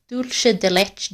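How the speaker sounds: "Dulce de leche" slowly anglicized, ending "LESH"; attempted English accent. Shown as a demonstration. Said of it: "it just in English accent".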